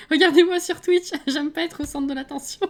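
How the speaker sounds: high, loud, laughing through the words; amused self-mockery; laughing at herself. Real, not acted. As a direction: laugh at the irony as you say it. Laughing at own paradox.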